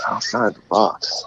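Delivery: slow booming announcer. Shown as a demonstration. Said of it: "goal call voice of yours".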